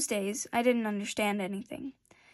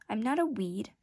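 sweetly. Acted. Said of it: "the flower replied sweetly".

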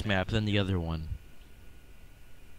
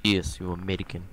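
mock Russian accent, hammed up; gruff fake Russian villain voice; 3 semitones lower than usual. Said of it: "you're using your Russian accent".

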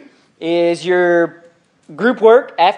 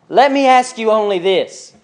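slow, pointed challenge; a little angry; 2 semitones higher than usual. Acted. Paul confronting the Galatians, a little angry. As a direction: read it as a mildly cross, measured demand. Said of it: "Think he's a little angry?".

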